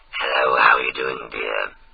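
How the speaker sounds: very low, deep, throaty voice with throat buzz. Showing another speaker how to do an impression: Jill impression. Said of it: "maybe if I can do it, you can do it better".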